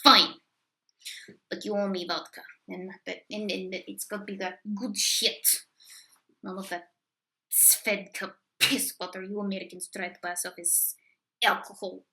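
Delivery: lightly put-on Russian accent; fake Russian accent. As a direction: play a grumpy Russian, bad accent. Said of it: "fake horrible Russian accent".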